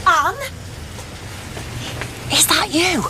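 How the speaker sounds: shouting a friend's name outdoors; calling out. Acted. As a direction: call her name from a distance.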